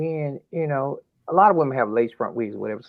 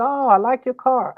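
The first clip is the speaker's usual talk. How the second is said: deflecting daughter; 11 semitones higher, 5 dB louder than usual. Retold or imitated.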